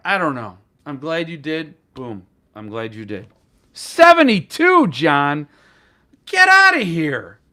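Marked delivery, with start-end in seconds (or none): 3.7-5.5 loud, high gasp of disbelief; shocked. Real, not acted. Shocked at a friend's pre-order count. 6.3-7.4 loud playful get outta here; mock disbelief. Real, not acted.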